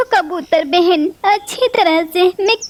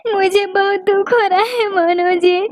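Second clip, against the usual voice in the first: crying. Acted. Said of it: "रो रो कर सबसे कहती रहोगी".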